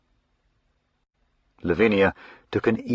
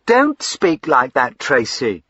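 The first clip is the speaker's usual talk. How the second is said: higher, louder, slow protest; crying out; 6 semitones higher, 6 dB louder, slower than usual. Acted. Lavinia defending her husband to her brother, crying out. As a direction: cry out to stop him. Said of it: "she cried".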